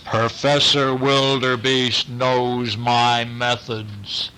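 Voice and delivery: slow, deliberate moose voice; a measured, unhurried detective moose; blue moose. Acted. Blue moose answering the boy, slow and deliberate.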